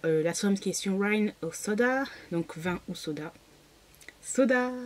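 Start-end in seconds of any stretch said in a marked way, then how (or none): 4.2-4.7 excited. Real, not acted. Enthusiastic answer to wine or soda.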